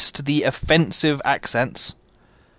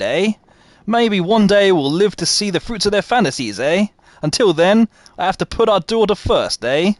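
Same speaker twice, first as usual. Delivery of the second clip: lightly attempted Canadian accent; hammy, half-convincing Canadian accent; mock Canadian accent. Shown as a demonstration. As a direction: read it as a stereotyped Canadian, each "eh?" tagged on. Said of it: "Okay, I'll do you Canadian".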